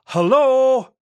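very high, loud full-lunged shout; hello yelled with everything you've got; shouting at the top of lungs. A narrator's reading. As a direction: bellow it as loud as you can. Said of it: "at the top of my lungs".

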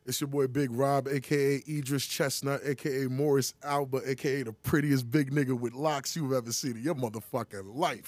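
smooth flashy pimp swagger. Acted. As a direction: lay on the slick pimp tone. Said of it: "he threw the pimp tone on that".

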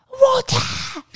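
very high, strained mock scream; imitating a screaming child. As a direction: mimic a worn-out toddler's shriek. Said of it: "he had almost lost his voice from screaming".

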